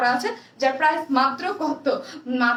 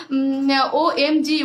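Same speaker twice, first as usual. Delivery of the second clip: laughing; 4 dB louder, much slower than usual. Real, not acted. Reading a fan comment, laughing.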